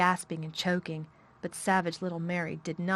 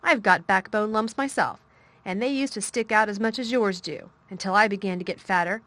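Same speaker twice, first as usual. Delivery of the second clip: firm, bossy; 6 dB louder than usual. Acted. Mary lecturing Colin firmly.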